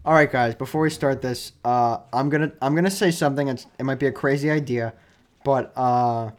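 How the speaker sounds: lightly voiced coach, slightly low; a touch of understated coach addressing reporters; low-key mimicked announcement; imitated coach opening press conference. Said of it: "and he goes".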